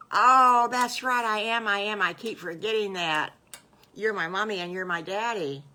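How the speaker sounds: loud burst, easing slightly as it goes; excited realization. Acted. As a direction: blurt it out as an eager little wolf. Wolf child suddenly remembers new family.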